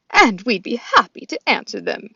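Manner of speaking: goose voice. Acted. Loudwing the goose speaks.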